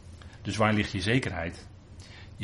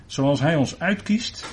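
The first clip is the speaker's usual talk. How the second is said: slow emphatic reading; 7 semitones higher, 7 dB louder, slower than usual. Acted. Slow emphatic scripture quote.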